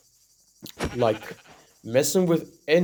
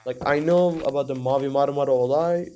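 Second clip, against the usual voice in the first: Turkish accent slip. Real, not acted. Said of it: "accent slip".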